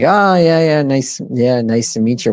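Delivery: high, awkward nice-to-meet-you; awkward polite greeting. Retold or imitated. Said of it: "And I'm like".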